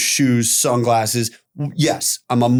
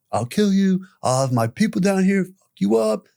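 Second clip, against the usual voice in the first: retold threats; 7 semitones higher than usual. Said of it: "I stand outside yelling".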